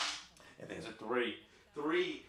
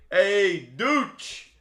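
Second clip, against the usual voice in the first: high, loud shout; calling out; 6 semitones higher, 9 dB louder than usual. Real, not acted. Streamer calling out a horse name, loud. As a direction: call out the name.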